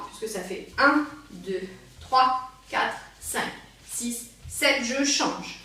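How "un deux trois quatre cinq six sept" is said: evenly spaced slow counting. Shown as a demonstration. Dance teacher demonstrating a slow rhythm, slow count. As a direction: count out a slow beat, leaving gaps. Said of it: "qui est plutôt lent".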